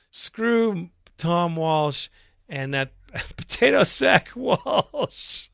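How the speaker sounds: can't hold it together, laugh through the words; cracking up. Real, not acted. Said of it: "I can't go on because it's just too funny".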